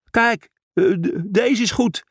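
hoge, hakkelende figuurstem; hakkelende verklaring. A narrator's reading. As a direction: verklaar het hoog en stotterend. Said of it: "verklaarde hij". (hoog, hakkelend stemmetje)

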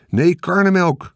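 put-on high, loud boyish objection; boy calling out. A narrator's reading. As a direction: shout it out like an eager kid. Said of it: "riep Michiel". (luid roepend jongetje)

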